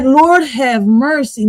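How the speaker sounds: slow, stretched Lord have mercy; drawn-out Lord have mercy. Shown as a demonstration. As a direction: Lord dragged out long. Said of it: "let's take that back a little bit".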